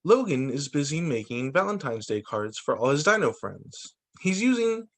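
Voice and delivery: bright, lively storybook reading; reading to children. A narrator's reading. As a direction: tell it like a fun picture book for kids. Reading story book aloud.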